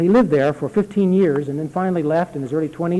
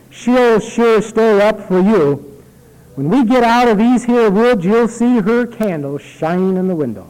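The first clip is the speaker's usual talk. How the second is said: reassuring servant; 6 semitones higher, 6 dB louder than usual. A narrator's reading. Servant comforting the boy on the dark road, lightly voiced and reassuring. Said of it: "he said reassuringly".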